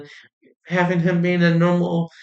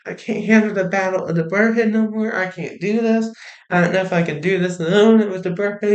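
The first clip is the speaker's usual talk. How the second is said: higher-pitched, overwhelmed pleading, lightly voiced; lightly acted Hunter; 4 semitones higher than usual. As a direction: mildly act out someone giving up under pressure. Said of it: "and Hunter's like".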